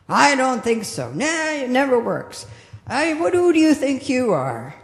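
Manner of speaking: ego voice. Acted. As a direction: sneer at yourself like the ego. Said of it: "That's ego".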